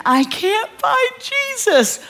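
put-on high, slow, shrill child's wail; screaming little girl. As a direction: wail it like a panicked kid. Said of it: "she starts screaming".

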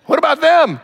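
high, loud what about them; rising indignant challenge; indignant outburst. Real, not acted. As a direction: throw the question out at the crowd. Preacher's rhetorical outburst.

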